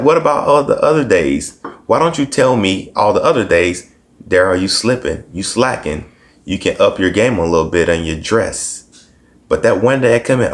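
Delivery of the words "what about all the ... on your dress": mock indignant. Indignant retort retold.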